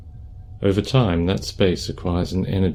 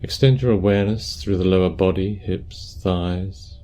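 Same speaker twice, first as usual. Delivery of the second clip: calm, unhurried meditation guidance; guided meditation; 5 dB quieter than usual. Acted. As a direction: guide them gently through posture and breath, leaving space.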